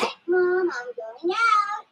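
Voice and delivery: calling out. Acted. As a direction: call out to another room. Calling out to mom.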